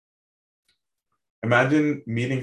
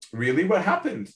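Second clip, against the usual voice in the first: high-pitched mock disbelief; mock incredulous; 6 semitones higher than usual. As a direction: ask it high, as if taken aback. God imagined reacting in disbelief.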